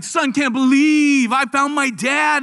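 overjoyed shout. Retold or imitated. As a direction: shout it like you just found your long-lost dad. Acting the son's joy in film.

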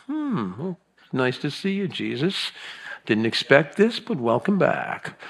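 soft, offhand mock nonchalance; casual. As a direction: shrug it off like nothing happened. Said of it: "with a casual".

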